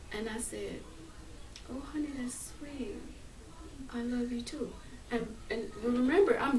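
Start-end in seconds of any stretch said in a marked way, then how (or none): 1.7-4.7 tender. Retold or imitated. Tender reply to husband, retold.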